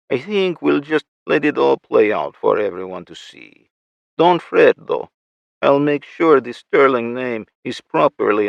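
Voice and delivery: lightly voiced gloating villain; smug villain voice. Victor threatening over radio.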